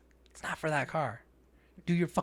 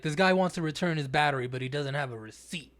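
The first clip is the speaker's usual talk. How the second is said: bitchy. Retold or imitated. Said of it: "All bitchy towards him".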